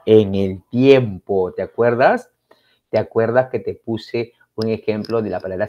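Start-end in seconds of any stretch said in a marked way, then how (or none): 0.1-1.5 slow emphasis. Shown as a demonstration.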